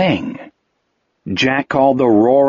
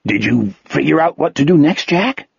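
timid question; 2 semitones higher than usual. Acted. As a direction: ask shyly, afraid to bother him. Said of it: "Wolf asked timidly".

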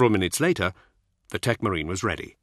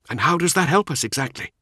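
skeptical; 7 semitones higher than usual. Acted. Skeptical Nemiel.

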